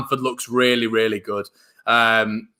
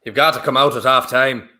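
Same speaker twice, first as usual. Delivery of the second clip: a light put-on American accent; lightly voiced American accent, playful; 4 dB louder than usual. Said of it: "That's my best, uh, American accent".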